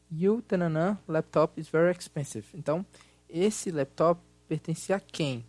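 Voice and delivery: loud, projected teacher voice; class lesson voice. Acted. Teacher runs a recorded grammar exercise, loud and projected.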